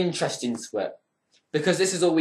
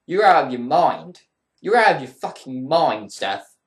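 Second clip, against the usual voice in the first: angry rant; 3 dB louder than usual. Real, not acted. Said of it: "this pissed me the fuck off".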